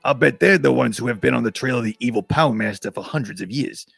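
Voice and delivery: lightly voiced Martian character; a toned-down put-on alien voice; Flipto. Reader settles into the Martian's lines, lightly put-on voice. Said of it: "I gotta read it in his voice".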